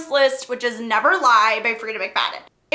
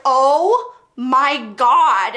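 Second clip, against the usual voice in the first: slow and loud, stretched in disbelief; reading another chapter live, stunned again; drawn-out shock; 5 dB louder, much slower than usual. Retold or imitated. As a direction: drag it out, stunned. Repeated reaction, drawn out.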